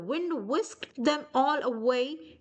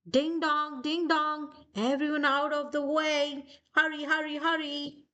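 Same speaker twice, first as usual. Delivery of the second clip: 1 fire engine call; 5 semitones higher than usual. Acted.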